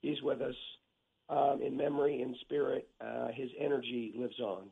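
hoarse, scratchy throat; talking through a sore throat; rough throat. Real, not acted. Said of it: "Sorry about my throat".

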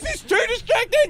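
high royal voice, laughing; Queen voice. Acted. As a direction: stay in the Queen voice. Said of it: "in a Queen voice?".

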